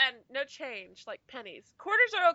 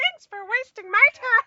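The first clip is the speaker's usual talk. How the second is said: put-on really high-pitched, shrill, very loud childish voice; 8 semitones higher, 9 dB louder than usual. Acting out someone tossing a penny and walking away, really high-pitched voice. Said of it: "In a really high pitched voice".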